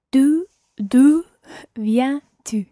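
"D'où" loud and repeated, then "viens-tu" word by word; careful vowel sounds. Shown as a demonstration. Learner retries after teacher's correction, careful vowels in "D'où viens-tu". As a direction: practise each vowel of "D'où viens-tu" separately. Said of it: "just watch your vowel sounds there".

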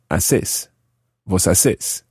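haces said a-SÉS, with an s; stress on final vowel. Shown as a demonstration. Teacher building the vos form, haces stressed on final vowel. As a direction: land "haces" on its last syllable. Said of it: "put an accent on the final vowel".

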